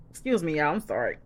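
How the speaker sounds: coughing then apologizing; cough, then excuse yourself; dry cough. Real, not acted.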